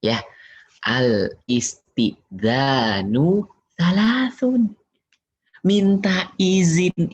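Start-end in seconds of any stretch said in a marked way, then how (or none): 0.8-4.8 slow recitation, repeated. Shown as a demonstration. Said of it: "Kata Nabi".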